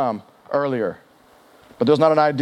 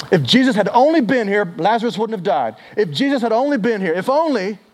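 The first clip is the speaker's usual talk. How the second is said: mock frustrated regret, pitched up; acted lament; 4 semitones higher, 4 dB louder than usual. Sisters grumbling to each other at home, acted lament.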